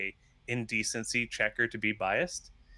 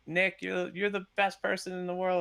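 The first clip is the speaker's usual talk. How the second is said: lightly voiced Obama; 8 semitones higher than usual. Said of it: "he could say, like".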